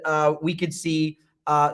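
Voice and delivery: ordinary talk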